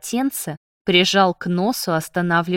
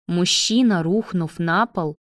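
usual speaking voice

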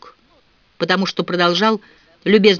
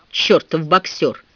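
usual speaking voice

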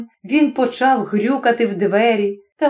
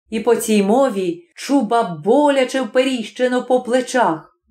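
ordinary delivery

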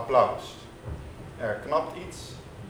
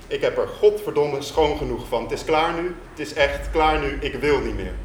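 mock shout; 2 semitones higher, 5 dB louder than usual. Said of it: "Ik schreeuw in zijn gezicht".

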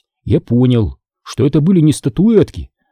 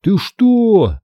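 put-on higher shocked girl; girl shocked at theft; astonished; 8 semitones higher than usual. A narrator's reading. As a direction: gasp it out in disbelief. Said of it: "Её рот раскрылся от изумления".

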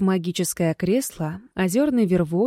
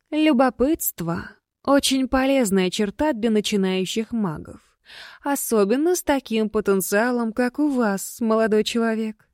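ghost voice; 3 semitones higher than usual. Acted. Flirty ghost lady speaks.

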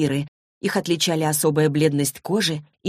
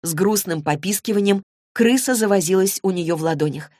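ordinary delivery, nothing marked

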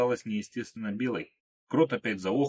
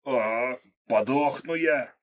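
slow, strained, louder groan of pain; strangled voice; 4 semitones higher, 3 dB louder, much slower than usual. Acted. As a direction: squeeze the words out through the pain. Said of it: "сдавленным голосом произнёс Крот".

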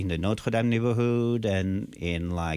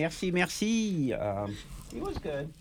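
far from mic; 7 semitones higher, 5 dB quieter than usual. Real, not acted. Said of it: "you sound like you're far away".

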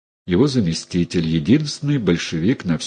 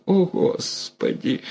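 gasping cry; 10 semitones higher, 3 dB quieter, slower than usual. A narrator's reading. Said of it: "вскрикнула мать".

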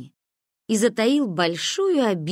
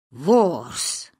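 thundering; 3 semitones lower than usual. A narrator's reading. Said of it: "прогрохотал Пашо".

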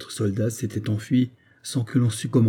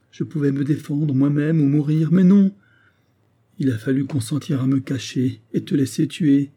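sobbing lament; 4 semitones higher than usual. Acted. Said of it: "Elle le contemplait en sanglotant".

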